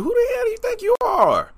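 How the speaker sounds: high, indignant shout; indignant outburst. Acted. Confronting those who limit him, indignant shout. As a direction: challenge them, pitch shooting way up. Defiant rant at his doubters.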